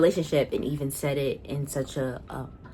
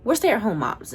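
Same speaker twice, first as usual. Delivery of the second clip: higher, louder mock voice of proud moms; mimicking the moms; 6 semitones higher, 5 dB louder than usual. Quoting the moms on the show, mock proud voice. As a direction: parrot them with a smug lift. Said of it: "and they're like".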